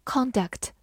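conduct with the stress on CON; stress on first syllable. Shown as a demonstration. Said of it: "重音放在了前面".

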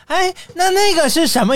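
put-on high curious child voice. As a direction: ask it like a curious small kid, pitched high. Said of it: "小树就开始问".

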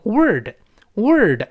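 "word" with curled r and the l missing; common misreading. Shown as a demonstration. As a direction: say "word" for world, skipping the dark l. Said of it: "好多人容易把它误读成".

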